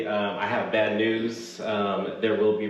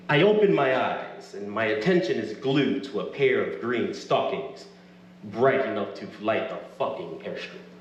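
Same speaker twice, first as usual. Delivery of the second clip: story narration. A narrator's reading.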